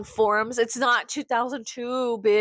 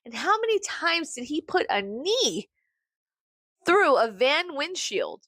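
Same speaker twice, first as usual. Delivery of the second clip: sarcastic; 3 semitones higher, slower than usual. Retold or imitated. Sarcastic quiz of the girl.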